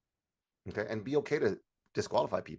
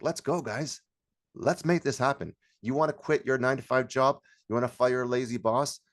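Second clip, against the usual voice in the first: motivational hype; 3 semitones higher than usual. Shown as a demonstration. Demonstrates hyping up workshop audience.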